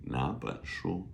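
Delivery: 哪本书 with the first third tone turned rising; tone change. Shown as a demonstration. Teacher showing how 哪本书 is pronounced, tone change on 哪. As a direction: say 哪本书 lifting 哪 like a second tone. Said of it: "first third becomes a second tone".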